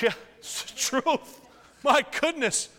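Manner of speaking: high laughing exclamation; laughing it off mid-sermon. Real, not acted. Preacher laughing at his own family story.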